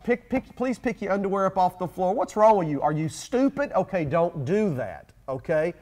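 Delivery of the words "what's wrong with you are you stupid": mock insult. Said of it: "Don't attack the person".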